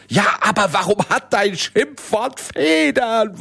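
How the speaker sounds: high, puzzled giant voice; a dim giant who doesn't get it; confused giant. Acted. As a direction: giant baffled by the feathered insult.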